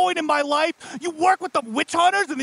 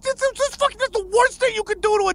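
high, fast angry rant; demon outburst; 6 semitones higher, faster than usual. Acted. Demon boss ranting that salt circles wound demons. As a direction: blurt it out in a fury.

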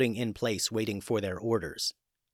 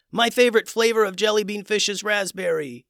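silly dolphin voice; 10 semitones higher, 4 dB louder than usual. Acted. Silly dolphin crowd cry.

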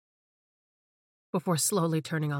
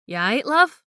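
put-on high, loud slurred drunk voice; drunken slur; 7 semitones higher, 7 dB louder, slower than usual. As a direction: slur it like a tipsy clubgoer. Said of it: "Tara drunkenly slurred".

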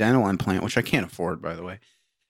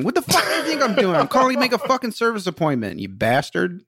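higher, indignant rant at the clerk; mock angry caller; 6 semitones higher than usual. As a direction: pretend to chew out the dealer. Voicing angry caller to dealer.

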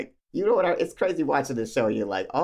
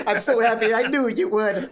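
bad French accent; 8 semitones higher, 4 dB louder than usual. Co-host plays the delighted dad in a hammed-up French accent. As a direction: gush in a badly faked French accent. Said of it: "My bad for the accent".

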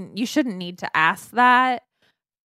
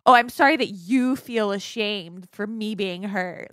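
slow, mocking fake sorry; sarcastic apology; slower than usual. Mimicking an insincere partner's apology, slow and sarcastic. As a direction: drag it out like you don't mean it. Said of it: "it feels like a sarcastic".

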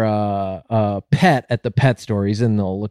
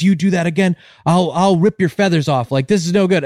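higher-pitched mock threat; threatening; 6 semitones higher than usual. Pet store owner threatening the parrot, mildly angry warning. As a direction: warn it, getting in its face. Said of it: "he gets in the parrot's face".

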